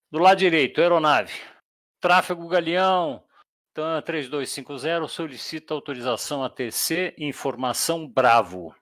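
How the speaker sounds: leitura de fonia, um pouco mais alta; voz de piloto no rádio. Shown as a demonstration. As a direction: chame o controle como piloto. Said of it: "Exemplo de comunicação". (piloto chamando o tráfego pelo rádio)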